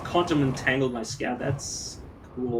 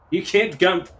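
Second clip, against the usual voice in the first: startled loud protest; jolted, half-laughing outburst; scared horror game streamer; 5 semitones higher, 7 dB louder, slower than usual. Real, not acted.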